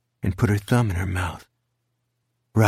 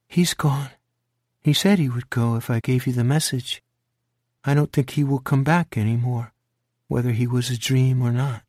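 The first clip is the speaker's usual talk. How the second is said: lightly voiced little girl, higher, calm and sure; a hint of a small child; young girl Grace; 5 semitones higher than usual.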